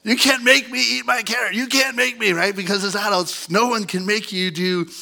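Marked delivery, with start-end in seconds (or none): 0.0-2.3 put-on defiant kid. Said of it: "what we dream about as a kid".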